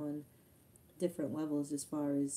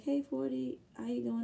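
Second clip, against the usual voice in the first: imitating her greeting; 6 semitones higher than usual. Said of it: "she was like".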